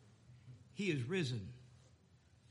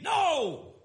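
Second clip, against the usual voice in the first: shouted no; 9 semitones higher, 7 dB louder than usual. Retold or imitated. Disciples answer, shouted.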